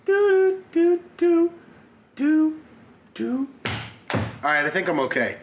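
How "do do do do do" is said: hiccup cure. Real, not acted. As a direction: chant to stop the hiccups. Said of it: "get rid of these hiccups".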